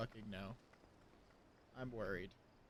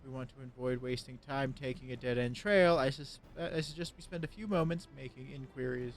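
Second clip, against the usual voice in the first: character voice reading dialogue; 6 dB louder than usual. Acted. Reads NPC dialogue aloud.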